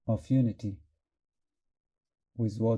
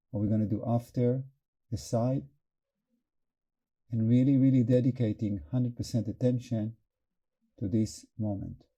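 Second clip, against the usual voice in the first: calm meditation guide with long pauses; guided meditation. Real, not acted. Teacher opening the group's hearts, in calm guided meditation. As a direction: lead them gently into presence, pausing between phrases.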